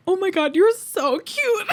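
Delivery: slow, high, laugh-cry gushing. Retold or imitated. Fan gushes at her idol mid-pose, high laughing melt. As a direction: melt into laughter as you gush.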